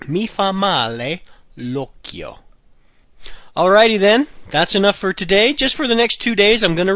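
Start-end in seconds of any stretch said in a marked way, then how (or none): 0.1-2.4 slow, deliberate repeat. Shown as a demonstration. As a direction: repeat it slowly for learners. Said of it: "The eye does me bad".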